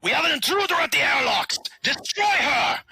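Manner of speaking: high, tinny shout over a speaker; tinny intercom voice. Acted. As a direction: bark orders through a tinny intercom. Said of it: "his tinny voice echoes".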